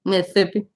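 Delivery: "Mississippi" lisped, with TH for the first S sound; teasing "Mississippi" with a TH in the middle; mock Mississippi accent. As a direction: say "Mississippi" as Miss-thippi. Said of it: "making fun of Crystal's accent".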